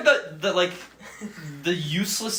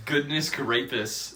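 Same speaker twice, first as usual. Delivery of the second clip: silly pun voice; 5 semitones lower, 6 dB quieter, slower than usual. Retold or imitated.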